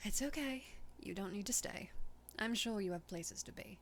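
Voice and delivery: lightly voiced British woman; British accent. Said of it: "you're giving her a British accent".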